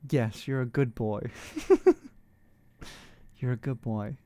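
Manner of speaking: low creaky fry, dominant tone; vocal fry. Acted. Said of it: "like, vocal fry".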